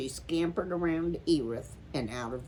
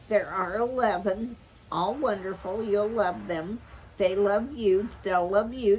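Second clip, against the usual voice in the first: gushing; 5 semitones higher, 5 dB louder than usual. A narrator's reading. Eager mother gushing to sister.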